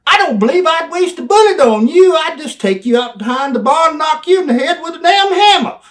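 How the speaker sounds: very high, loud tirade; screaming insult. Retold or imitated. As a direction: scream it to provoke him. Climax of belittling promo.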